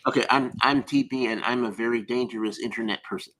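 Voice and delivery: lightly voiced low, deliberate braggart; a measured, understated mock tough guy; Tyrant Buster. Retrying the impression after coaching, lightly put-on braggart voice. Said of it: "you gotta talk a little slower".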